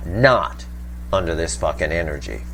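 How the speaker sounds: hard-hitting, forceful, emphatic delivery. Reading tarot cards aloud, the speaker drives a point home with emphatic inflection. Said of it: "make that abundantly clear with my voice inflection".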